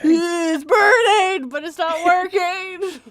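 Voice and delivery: mock anguish.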